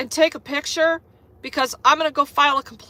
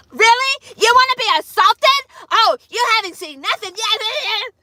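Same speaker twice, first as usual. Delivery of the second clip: higher, louder mock threat; imitating a taunting carrier; 8 semitones higher, 4 dB louder than usual. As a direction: sneer it like she's daring him. Carrier's reply, voiced in story.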